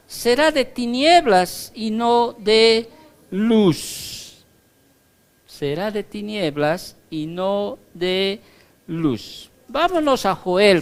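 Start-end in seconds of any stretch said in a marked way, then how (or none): 0.1-4.4 raised, slow proclaiming voice; proclaimed. Acted. Preacher proclaiming the verse, then repeating it plainly. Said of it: "repeats the line plainly".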